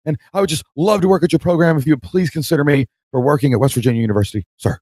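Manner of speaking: high, breathless, pleading; eager young job seeker. Retold or imitated. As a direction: rush the plea to the end. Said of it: "he's like".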